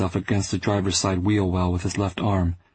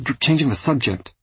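loud; 5 semitones higher than usual. Acted. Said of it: "My voice was loud".

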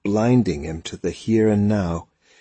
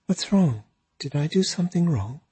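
upset; 8 semitones higher, faster than usual. A narrator's reading. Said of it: "Her face crumpled".

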